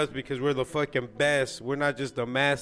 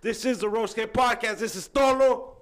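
high, slow hammed-up wrestler promo; wrestling promo; 7 semitones higher, slower than usual. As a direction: cut a wild wrestling promo, slobbering. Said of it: "sign out with our best wrestling impression".

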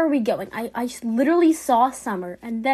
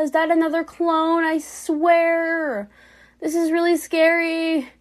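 scared yelling; 5 semitones higher, 4 dB louder than usual. Real, not acted. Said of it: "I don't know why I'm screaming".

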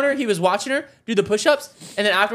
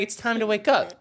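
softer, gentle wake-up line; 5 dB quieter than usual. Retold or imitated. He quotes wife wanting a soft loving wake-up. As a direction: murmur it lovingly. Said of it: "whisper and be like".

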